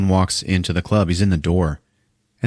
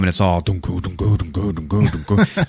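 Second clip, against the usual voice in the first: club beat imitation; 2 semitones lower than usual. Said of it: "imitating club music".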